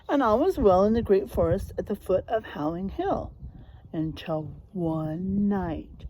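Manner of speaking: lively storybook narration for a class; reading to children. Acted. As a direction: draw the kids into the tale. Reads picture book to class.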